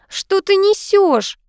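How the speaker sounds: high, slow, outraged cry; mock shout, stretched out slowly. A narrator's reading. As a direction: scream it at the husband in disbelief. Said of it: "закричала его жена".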